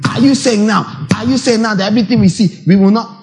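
rebellious challenge. Acted. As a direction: play the objector pushing back. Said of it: "You'll be thinking".

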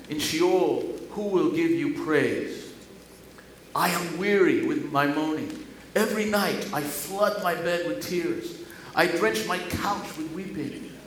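solemn lament reading; measured psalm reading; scripture reading. Acted. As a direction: read it as a plea of grief.

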